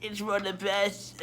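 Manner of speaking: high, slow mock-tearful farewell; halting, hammed-up parting that breaks into crying; Akechi.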